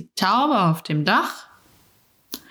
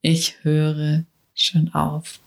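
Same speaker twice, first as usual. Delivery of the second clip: slow, lowered echo of "Ich höre schon auf"; slower, lower repeat; 3 semitones lower, slower than usual. Shown as a demonstration. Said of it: "Eklig, ne? Diese Worte".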